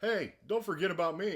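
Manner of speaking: high, loud calling out; mock damsel calling for attention; Lady J. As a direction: pipe up urgently in a high voice. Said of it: "and she's like".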